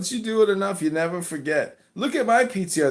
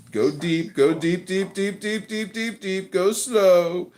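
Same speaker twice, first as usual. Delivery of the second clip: mock hypnotist; 2 semitones lower, slower than usual. Mock hypnotist talks a listener into a trance, hypnotic monotone. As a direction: chant the induction, letting pitch creep up.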